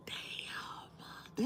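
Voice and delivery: breathy hushed damn; whispered damn. Retold or imitated. Wife reacting to the scratches, whispered. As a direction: breathe it out in awe. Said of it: "I was like".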